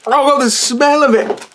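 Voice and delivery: high, laughing disgust; gagging laugh at the smell. Real, not acted. Smelling the hot pepper.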